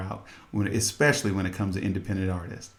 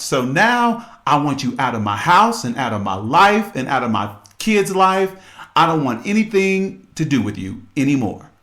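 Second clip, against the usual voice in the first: louder, firm mock telling-off; wife ordering her cheating husband out, loud and angry; 3 semitones higher, 5 dB louder than usual. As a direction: throw him out of the house and your life. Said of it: "She was".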